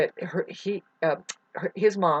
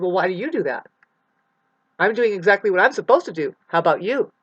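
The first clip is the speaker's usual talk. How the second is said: throwing the question back, louder; retorting; 5 dB louder than usual. Retold or imitated. Answering the questioners, retold defiant retort. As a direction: turn it back on them with a bite. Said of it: "And I said".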